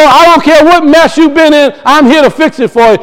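gentle, lightly voiced promise; reassuring. Yeshua reassuring him that he will fix it. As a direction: comfort someone who made a mess. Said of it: "He's letting me know".

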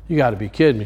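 low, soft dismayed sigh of words; quiet low groan of disbelief; exasperated groan. Retold or imitated. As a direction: mutter it like bad news just hit. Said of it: "And he went".

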